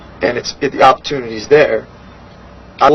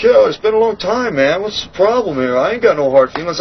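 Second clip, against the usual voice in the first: lightly pitched-up mock of his easygoing tone; casual brush-off; 6 semitones higher than usual. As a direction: play him acting like nothing happened. Imitating the guy brushing it off.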